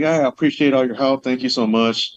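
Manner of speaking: mildly sweet, grateful phone manner; softly voiced polite thanks, lightly put on; being nice. Caller thanking the lady for her help, nicely. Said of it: "Just by being nice".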